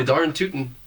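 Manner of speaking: a hint of hammed-up Midwestern twang; Minnesota accent. Friend joining the Midwestern accent bit, lightly. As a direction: toss off a folksy Midwestern line. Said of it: "the Minnesota accent".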